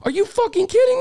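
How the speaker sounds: high mock yell at the ref; yelling in disbelief at the referee; retold screaming. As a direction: coach retelling screaming at the ref, high and incredulous. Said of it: "I started screaming".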